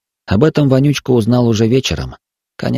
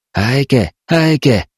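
a voice rising as it calls the name; calling from the dark; 4 semitones higher, slower than usual. A narrator's reading. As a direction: call him again from the dark. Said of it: "зашептал голос".

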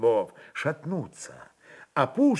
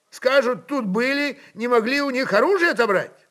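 much higher, louder governor pleading his case; agitated voevoda; 11 semitones higher, 6 dB louder than usual. Acted. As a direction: press the point hard, the governor fears the tsar. Voevoda argues with metropolitan.

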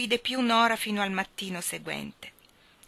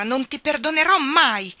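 much higher, louder furious vow; furious cry; 8 semitones higher, 8 dB louder than usual. Acted. Nora furious at Anna for the lamp signal, shouting. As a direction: scream it, never forgiving. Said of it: "esclamò Nora".

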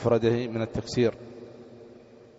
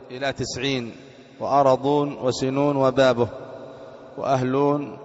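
formal text reading. Real, not acted. Teacher reads grammar text aloud.

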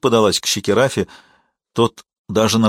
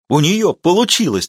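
higher, louder triumphant cry; triumphant exclamation; 7 semitones higher, 3 dB louder than usual. A narrator's reading. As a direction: shout it like a victory. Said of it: "торжествующе воскликнул Ти-Джей".

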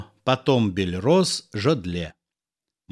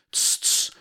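shushing; 5 dB quieter than usual. Acted. Audience shushing the heckler.

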